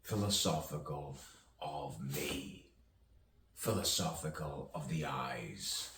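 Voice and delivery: measured poetic recital with long pauses; spoken-word poetry. Acted. Poet musing aloud on misunderstanding and rebirth, spoken-word delivery. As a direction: recite it as free verse, letting each phrase hang.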